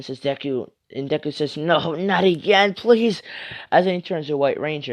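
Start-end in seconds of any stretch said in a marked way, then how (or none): 1.6-3.2 mildly distressed, higher-pitched plea; drawn-out, rising plea; pleading. Acted. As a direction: plead as your voice rises. Deku pleads against changing again.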